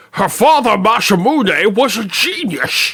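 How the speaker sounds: horrible Scottish accent, shrill, loud and belted. Speaker offers to say a requested line in the horrible Sean Connery accent. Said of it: "in the horrible Sean Connery accent".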